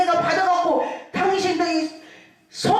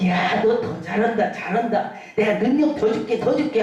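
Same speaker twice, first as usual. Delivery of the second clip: lower-pitched, fond encouraging voice of God; God praising; 5 semitones lower than usual. Retold or imitated. Pastor voices God promising him more power, lower and encouraging. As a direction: speak like God cheering on a servant. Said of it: "그럴 때에 하나님은요".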